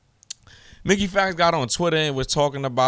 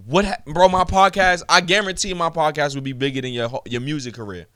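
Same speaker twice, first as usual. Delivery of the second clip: heated retort; 2 semitones higher than usual. Real, not acted. Angry rant at a rival.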